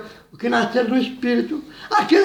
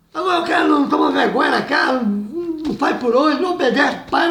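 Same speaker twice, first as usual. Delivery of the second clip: fast, raised rebuke; rebuking shout; 2 semitones higher than usual. Real, not acted. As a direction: call out the disobedient man. Preacher rebuking the disobedient.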